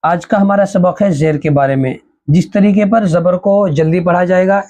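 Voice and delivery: sped-up teacher delivery; very fast. Shown as a demonstration. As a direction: rush through the lesson text. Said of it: "same words said again".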